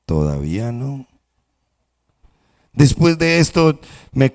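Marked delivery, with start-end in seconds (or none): 0.1-1.1 gentle, calm not yet; smiling master. Acted. Smiling master calmly refuses again, gentle. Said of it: "me miraba y sonreía".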